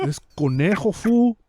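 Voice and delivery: mock the failed tough-guy intro; a hint of a hammed-up cholo villain; mock menacing villain. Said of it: "Conejo's not fucking menacing".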